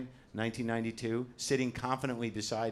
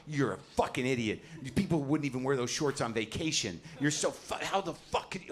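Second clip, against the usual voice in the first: retold seething, sputtering at normal volume; contained fury that breaks off unfinished; seething anger; 2 semitones higher than usual. Comic silently cursing a man's pants choice, seething. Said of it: "I'm seething with anger".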